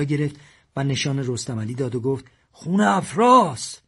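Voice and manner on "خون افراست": frantic. A narrator's reading. Madad showing the bloody finger.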